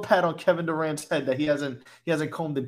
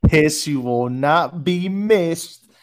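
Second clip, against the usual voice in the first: mock farewell; 6 dB louder, much slower than usual. Mock eulogy repeated slowly.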